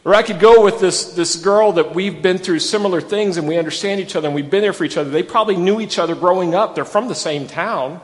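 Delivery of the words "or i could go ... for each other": Ruth weighing her options, higher and louder at first; preacher voicing a torn young widow; voicing Ruth's choice. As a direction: think it through out loud as Ruth. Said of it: "She has two choices".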